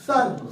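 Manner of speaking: "سن" with a light, fine consonant; light tajweed articulation of "سن"; thin light letter. Shown as a demonstration. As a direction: keep the first sound of "سن" thin. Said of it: "یہیں سے باریک".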